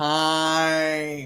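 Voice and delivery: heavy, deep, drawn-out bass on time. Answering own question to make sure it lands: deep bass voice on 'Time'. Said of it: "I had to put some bass in my voice".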